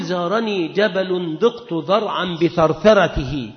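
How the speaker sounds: slow, measured recitation of the verse; slow recital. Shown as a demonstration. Teacher recites the example verse to students, slowly. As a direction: let each word of the line land slowly. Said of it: "تقول".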